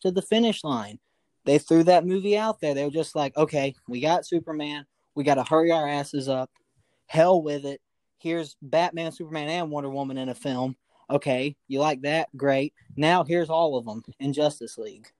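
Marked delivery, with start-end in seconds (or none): 3.4-15.1 unenthusiastic. Acted. Podcaster imitating hurried studio executives, unenthusiastic. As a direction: rattle off the plan with little enthusiasm. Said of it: "You sound like a very unenthusiastic guy".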